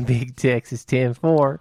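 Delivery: Texas drawl. Pretend. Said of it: "I keep the accent when I say that".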